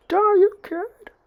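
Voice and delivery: slow, high, loud battle cry; villain's attack yell. Acted. Sludge villain throwing an arm at Deku, acted furious yell. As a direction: scream it high, stretching the words.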